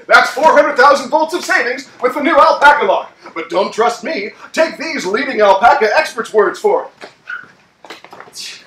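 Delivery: ad announcer read; infomercial announcer. Acted. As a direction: pitch the savings.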